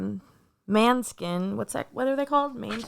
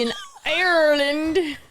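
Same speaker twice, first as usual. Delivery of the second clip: Irish accent attempts. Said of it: "the accent you were doing".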